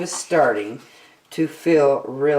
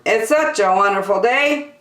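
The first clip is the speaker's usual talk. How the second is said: lemur; 6 semitones higher, 4 dB louder than usual. Acted. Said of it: "asked Lemur".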